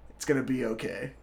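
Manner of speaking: low, soft and understated; quiet reassurance. Retold or imitated. Apostle silently reassures the nervous missionary, quiet reassurance. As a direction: voice a calming nod, hushed and low.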